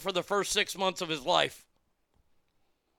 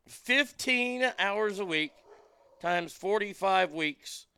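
slow and deliberate. Real, not acted. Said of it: "calculator time".

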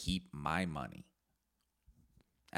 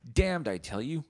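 louder and higher, theatrical curse; hammed-up damnation; 10 semitones higher, 5 dB louder than usual. Podcaster hamming a vow to take the table spot, loud mock curse. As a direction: ham it up like a stage villain swearing.

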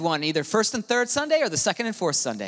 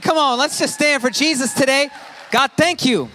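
rousing shout; 8 semitones higher, 4 dB louder than usual. Real, not acted. Urging the congregation to stand.

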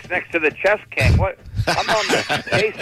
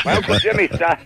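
usual speaking voice

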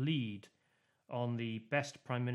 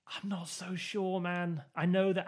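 slow, doubting, pitched higher; doubtful; 6 semitones higher, 4 dB louder than usual. Retold or imitated. Replying to fans of transferable votes, sceptical and slow. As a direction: drag out a sceptical not so sure. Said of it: "I'm like".

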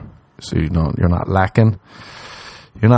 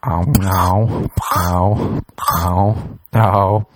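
hammed-up ow ow; mock pained yelps; much slower than usual. Mocking the hand job, hammed-up pained ow. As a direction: yelp like it hurts, jokingly.

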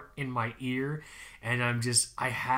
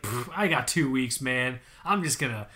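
cocky and casual; 4 dB louder than usual. Retold or imitated. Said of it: "In my mind, I'm just like".

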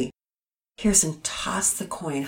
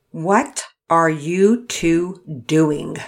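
stern demand; 5 dB louder, much slower than usual. Acted. Mother catches kids dawdling.

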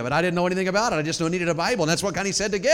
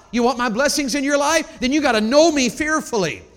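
God speaking through the verse; 6 semitones higher, 5 dB louder than usual. Acted. Preacher voicing God to listeners, loud and slowed. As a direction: plead as God to his people. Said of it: "He threw this in here to say to you".

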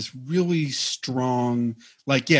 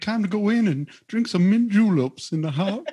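exaggerated Southern accent; 6 semitones higher than usual. Co-host topping the mint julep joke, hammed-up Southern accent. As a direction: ham up a Louisville Southerner, stretching the last words. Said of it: "it is very close to that, how he talks".

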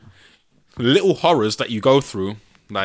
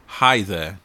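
creepy hi there; 5 semitones lower than usual. Shown as a demonstration. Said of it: "Who even texts, "Hi there"?".

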